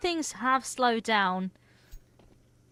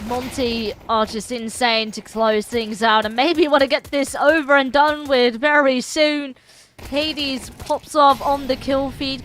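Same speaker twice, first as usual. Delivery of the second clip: louder, lifted esports commentary; live play-by-play; 4 semitones higher, 6 dB louder than usual. Real, not acted. Esports caster calling a round for viewers, energetic play-by-play. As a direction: drive the call forward with energy.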